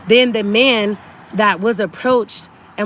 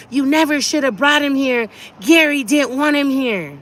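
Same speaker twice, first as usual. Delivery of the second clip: higher-pitched mock yell, volume held back; retold scream; 5 semitones higher than usual. Daughter repeating mom's words from the apartment, understated retold scream. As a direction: imitate mom's yelling without really screaming. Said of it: "what my mom screamed out of her apartment".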